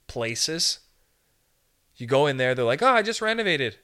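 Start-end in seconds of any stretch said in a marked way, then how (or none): 2.8-3.8 bragging landlord. Retold or imitated.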